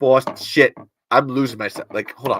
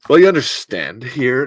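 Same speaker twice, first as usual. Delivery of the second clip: mid-Atlantic accent; 3 dB louder than usual. Shown as a demonstration. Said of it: "give me some Mid-Atlantic".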